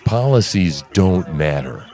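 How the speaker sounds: a hint of a smug pundit; mocking the guest. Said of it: "he goes".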